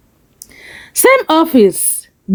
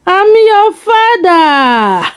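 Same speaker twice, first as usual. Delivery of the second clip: higher, slow, emotional cry of a father; emotional plea; 7 semitones higher, 4 dB louder, much slower than usual. Acted. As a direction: drag each word out, pleading to be heard. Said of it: "Adewale emotional".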